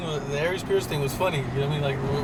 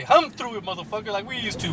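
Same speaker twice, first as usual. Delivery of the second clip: mock brush-off from a comedy bit; dismissive employer; 3 semitones higher than usual. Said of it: "I'll slam the door and say".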